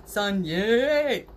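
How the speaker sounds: a big, loud cheer on yay. Shown as a demonstration. Showing viewers how they should say it, loud cheer. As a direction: belt it out for everyone. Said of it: "You should say it like that".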